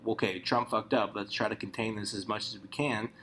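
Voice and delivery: level, measured official; calm, sensible voice; calm damage control. Retold or imitated. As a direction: keep it cool, contain the mess. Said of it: "the state should just go".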